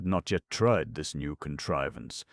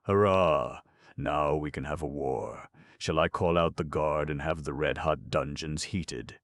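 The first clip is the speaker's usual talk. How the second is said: gleeful. Acted. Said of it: "exulted the little gnome".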